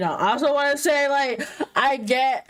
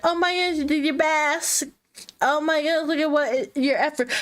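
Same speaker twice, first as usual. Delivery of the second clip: supportive parent; 6 semitones higher than usual. Retold or imitated.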